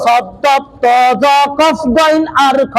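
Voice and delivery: slow, heavy "শব্দ ত জ কফ গইন আর খ", each letter full. Shown as a demonstration. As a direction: recite "শব্দ ত জ কফ গইন আর খ" slowly with thick, rounded sounds. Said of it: "সব সময় মোটা হবে". ("শব্দ ত জ কফ গইন আর খ" ধীরে, মোটা উচ্চারণে)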